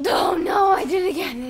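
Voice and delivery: sudden high yelp after hiccuping; startled by a hiccup. Real, not acted. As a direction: jump up at the hiccup. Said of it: "It fucking hiccuped".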